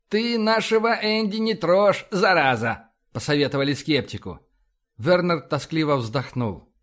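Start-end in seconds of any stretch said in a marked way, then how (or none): 0.1-2.9 higher-pitched scolding, falling on the last word; indignant warning. A narrator's reading. Crewmates telling the skeptic to leave Andy alone, indignant warning. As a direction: warn him off crossly.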